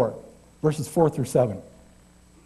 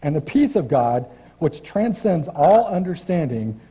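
scripture reading. Acted. Preacher reading Philippians to the congregation, measured scripture voice. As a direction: read the verses with gentle weight.

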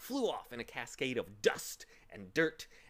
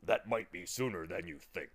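wry Tock; 4 semitones lower than usual. Acted. Tock warning the bug, low-key and wry. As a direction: slightly lower dog voice.

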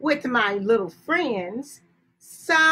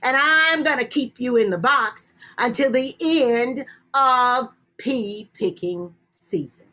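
put-on girl scolding rabbit; 3 dB louder, faster than usual. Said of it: "She said".

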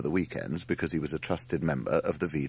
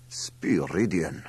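slow, drawn-out amazement; the man marvels, drawing the word out; amazed; 3 semitones lower, much slower than usual. A narrator's reading. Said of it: "said the man in amazement".

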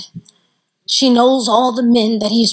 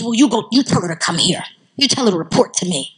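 lightly voiced tyrannical father, lowered pitch; 4 semitones lower, faster than usual. Father summons the hairdresser, mildly tyrannical. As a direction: order it with a hint of the tyrant dad. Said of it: "in tyrannical father fashion".

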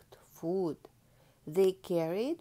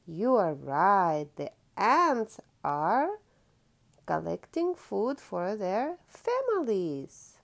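louder, slow cheering; louder encouraging praise; pleased praise; 4 dB louder than usual. Acted. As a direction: praise warmly and loudly. Praising child's answer.

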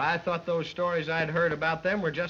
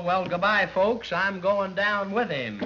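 mock heroic farewell; 5 semitones higher, 3 dB louder, slower than usual. Announcer jumps in after him.

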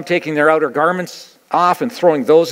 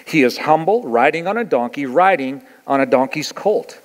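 scripture reading. Acted. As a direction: read it out like holy text.

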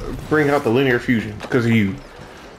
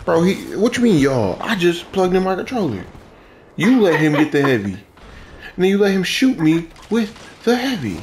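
annoyed; 4 semitones higher, 3 dB louder than usual. Real, not acted. Teammate complains about being killed.

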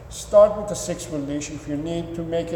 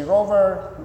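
calling the dog; 4 semitones higher than usual. Shown as a demonstration. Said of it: "You say".

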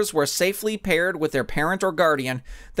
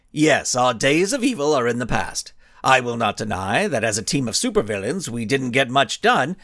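cocky villain speech. Acted. Blinding Skull addressing reporters with cocky pride. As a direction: savour each word, mock-humble.

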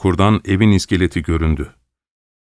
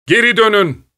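higher, more desperate yell; louder shout; 13 semitones higher than usual. A narrator's reading. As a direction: scream it even harder. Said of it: "diye bağırdım". (daha yüksek, çaresiz haykırış)

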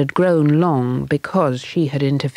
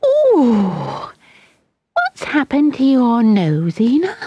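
put-on shocked child's cry; 9 semitones higher, 5 dB louder, slower than usual. A narrator's reading. Children shout at the nose.

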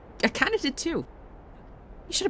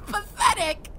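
higher, sneering through laughter; laughing scorn; slower than usual. Acted. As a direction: spit it out mid-laugh. Villain gloats, still laughing.

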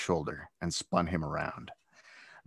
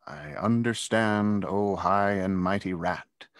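slow, mocking inner sarcasm; sarcastic thought; slower than usual. Zach silently mocking the bully, sarcastic and slow. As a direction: drag out the mockery privately. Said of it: "Zach thought".

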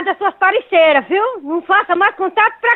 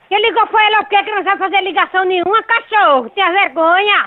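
raised scolding voice; angry scolding. Real, not acted. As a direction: tell him off, indignant. Woman scolds prank caller.

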